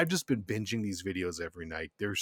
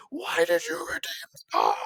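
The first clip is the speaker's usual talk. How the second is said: scammer freaking out; 5 semitones higher, 4 dB louder than usual. Retold or imitated. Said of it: "he's just like".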